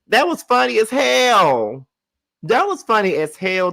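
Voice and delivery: alto y lento, entre risas; ríete mientras lo dices; laughing. Real, not acted. Laughing about Mary's line.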